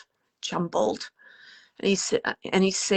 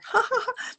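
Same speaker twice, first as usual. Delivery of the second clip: short, high-pitched imitated laugh; imitated laughter. Medium relays laughter from the family, imitated laugh. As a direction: mimic a quick burst of laughter. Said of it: "then there's laughter".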